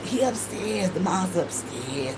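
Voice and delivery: soft, slow imitation of a small child; mother quietly mimics her small daughter; child's voice. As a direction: murmur it like a little girl. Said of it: "That's how she would say it".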